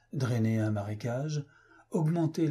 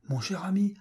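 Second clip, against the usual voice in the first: whispered, higher, eager and conspiratorial; urgent whisper; 8 semitones higher than usual. Acted. Maydig grips his friend's arm and whispers eagerly. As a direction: lean in and breathe it like a secret.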